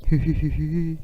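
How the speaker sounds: hu hu laughter through rounded lips; laughing on U. Shown as a demonstration. Teacher leading laughter practice on the vowel U, hu hu hu. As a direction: giggle on the U vowel. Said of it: "la voyelle U".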